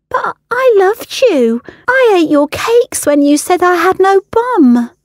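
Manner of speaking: on the edge of tears; hurt plea. Acted. Ella pleads, about to cry.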